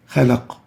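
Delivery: "Khalaq" stopped on a moderately bounced q; "Khalaq" with a short echo at the stop; medium qalqala. Shown as a demonstration. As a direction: release the final q of "Khalaq" without doubling it. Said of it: "we have the medium".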